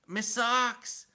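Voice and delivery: high hammed-up Scottish accent; mock Scottish accent. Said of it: "with the accent".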